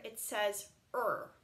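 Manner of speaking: er said as one smooth sound; er, not eh er. Shown as a demonstration. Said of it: "when you have the words E R together".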